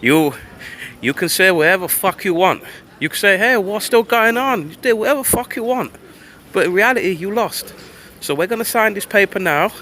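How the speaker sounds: high-pitched, badly faked Russian accent. Russians telling Western powers they lost, bad Russian accent. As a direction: do a mock Russian voice, pitched well up. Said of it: "I can't do a Russian accent".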